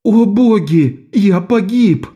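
high, slow anguished moan from the ground; groaning wail. A narrator's reading. Lok, knocked down, moans in mock despair. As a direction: wail as if ruined, dragging it out. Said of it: "застонал".

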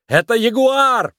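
high, slow, emphatic shout; shouted correction. A narrator's reading. Nick shouts a correction to Judy during the chase. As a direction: yell the correction over the chase. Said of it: "прокричал Ник".

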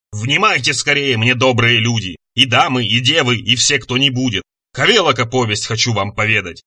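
measured, chanting epic recitation; monster reciting verse. Acted. Monster demonstrates an epic, intoning solemnly. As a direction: intone it like an old bard, slowing on line ends.

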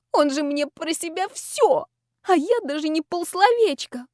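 snivel it out, pitiful and teary; sniffly self-pitying whine; sniffling. A narrator's reading. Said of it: "похлюпала я носом".

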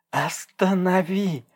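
high, slow drawn-out yell. A narrator's reading. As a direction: yell at him to stop. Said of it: "заорала Даша". (протяжный высокий крик)

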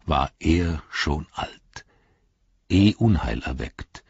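put-on slow, measured recital of an old rhyme; recited verse. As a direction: chant it like ancient lore. (langsam vorgetragener alter Vers)

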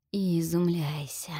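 slow whispered lure; seductive whisper. Acted. Gorgon entrancing the heroine, slow seductive whisper. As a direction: breathe the words out like a spell. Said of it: "обольстительное шипение Горгоны".

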